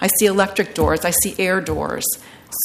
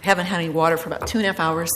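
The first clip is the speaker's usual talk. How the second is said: dry throat, thirsty voice; faster than usual. Real, not acted. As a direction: talk through a parched throat. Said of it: "excuse my dry voice".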